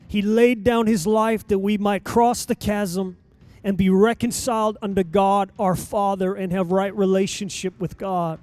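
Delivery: normal talking voice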